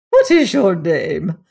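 loud, slow, stern demand; stern lady cutting in; severe. A narrator's reading. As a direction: question him with unmistakable severity. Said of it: "the severity of her manner was unmistakable".

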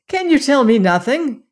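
high-pitched, pleading demand; anguished cry. A narrator's reading. Son begging his father for answers, agitated cry. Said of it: "he cried".

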